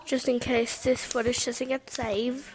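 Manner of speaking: light put-on British accent. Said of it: "I'm talking to a British accent".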